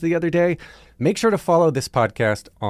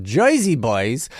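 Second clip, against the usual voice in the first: put-on Jersey accent; slower than usual. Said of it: "said Jersey Boys and Chicago in the respective accents".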